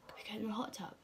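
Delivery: hushed, sneaky little whispered request. Retold or imitated. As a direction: whisper it like you don't want to be overheard. Asking mum secretly, whispered quote.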